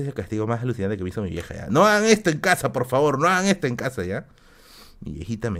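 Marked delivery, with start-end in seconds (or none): 1.7-4.0 advertencia al público. Real, not acted. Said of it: "advertencia al público".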